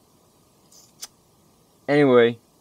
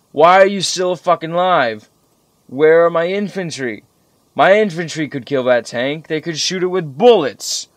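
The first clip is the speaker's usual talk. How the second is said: angry retold shout, higher and louder; yelling at the tank; 5 semitones higher, 6 dB louder than usual. Gamer yelling at an enemy tank that won't die, furious shout. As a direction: bark furious questions at a useless tank. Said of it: "I started yelling at the tank saying".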